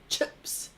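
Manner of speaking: "chips" said as "chups"; "chips" turned into a quick "chups"; Kiwi vowel. Shown as a demonstration. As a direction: say "chips" Kiwi-style, with a short u for the i. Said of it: "That's how that".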